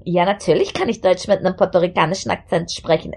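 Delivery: German with a Puerto Rican lilt; Puerto Rican accent. Shown as a demonstration. Asked to speak German, a light Puerto Rican accent. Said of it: "speak German with a, uh, Puerto Rican accent".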